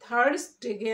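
THURSDAY as "THARS-day", r sounded. Shown as a demonstration. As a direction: say থার্সডেকে with r and s intact. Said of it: "smartly কি বলবো?".

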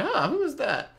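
high, loud mock surprise; startled reaction. Gamer retelling suddenly hearing somebody, startled reaction. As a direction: jump up in pitch as if caught off guard. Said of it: "I was like".

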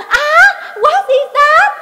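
very high, drawn-out fake-foreign question; mock Việt Kiều English. Imitating Tèo gawking at a cow, exaggerated. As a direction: stretch it out like a show-off. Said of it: "mới làm".

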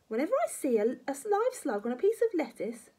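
high, loud granny relish; gloating grandma. Acted. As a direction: savour the revolting tale.

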